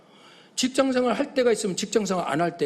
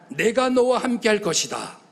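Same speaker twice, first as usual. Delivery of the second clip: 너와 stressed, slow and louder with a falling end; slow line to repeat; 4 semitones higher, 4 dB louder than usual. Shown as a demonstration. Preacher has the congregation echo God's promise, stressing 너와 slowly. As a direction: lift 너와 and land 할 것이다 firmly. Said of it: "그 다음에 따라합시다".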